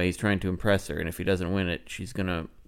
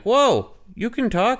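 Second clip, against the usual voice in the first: high amazed whoa; 14 semitones higher, 5 dB louder, slower than usual. Retold or imitated. Jeremy amazed to hear the cattle speak, high and loud. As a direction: voice jumps way up, louder, in astonishment. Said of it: "And then he's like".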